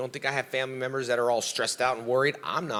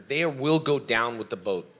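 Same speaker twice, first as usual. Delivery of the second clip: ordinary talk, nothing marked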